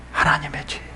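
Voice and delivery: soft, breath-led reply; hushed answer. Real, not acted. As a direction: drop low and soft. Preacher answers own question.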